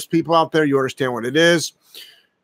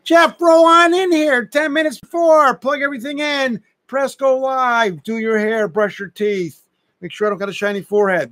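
self-mocking; 8 semitones higher than usual. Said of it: "mocking his own routine".

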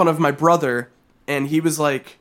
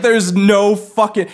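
laughing; 3 semitones higher, 3 dB louder, slower than usual. Retold or imitated. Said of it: "And I was like".

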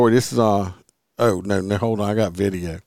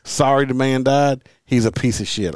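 irritated, insistent rant; real but contained annoyance; getting mad; 3 semitones higher, 3 dB louder than usual. Real, not acted. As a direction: push the point, getting worked up. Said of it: "I'm getting mad now".

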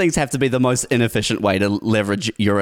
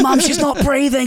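mock panic. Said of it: "And I'm like".

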